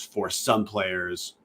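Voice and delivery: slow down and lean on "some"; "some" drawn out for emphasis; stress on SOME. Real, not acted. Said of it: "Emphasis on the word some".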